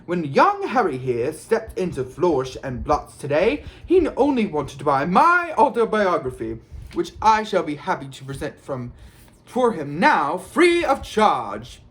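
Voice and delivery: grand, high showman's speech; loud announcement. A narrator's reading. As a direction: proclaim it to the whole crowd with self-satisfied pomp. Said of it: "he said loudly".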